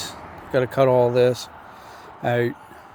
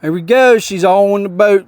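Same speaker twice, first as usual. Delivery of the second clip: excited; 8 semitones higher, 9 dB louder than usual. Real, not acted. Boat finally loaded, relieved.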